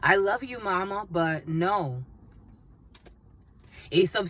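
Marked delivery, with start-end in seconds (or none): 0.0-2.0 put-on a touch of Southern accent, slowing at the end. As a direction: gently refuse mama with a slight Southern accent. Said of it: "someone has a southern accent for sure".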